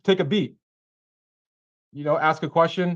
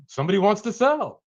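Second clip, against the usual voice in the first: surprised; 6 semitones higher than usual. Retold or imitated. Mock shock at seller.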